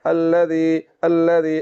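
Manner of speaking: tongue-tip dh in "अल्लज़ी", no whistle; no whistling. Shown as a demonstration. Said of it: "सीटी की आवाज़ नहीं निकल रही".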